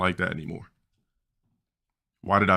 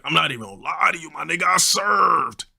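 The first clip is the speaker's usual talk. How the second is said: friend's voice; 8 semitones higher than usual. Retold or imitated. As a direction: rush the setup, then yell the brag. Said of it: "Yeah, that's how he talked".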